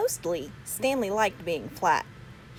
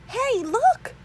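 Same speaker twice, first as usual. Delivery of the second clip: high, bright call to his mother; excited call; 5 dB louder than usual. A narrator's reading. Arthur excitedly calling to his mother. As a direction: point it out with glee.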